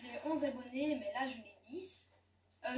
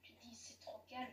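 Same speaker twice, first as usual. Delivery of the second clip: spooked, hushed; 7 dB quieter than usual. Real, not acted. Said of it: "ça fait flipper".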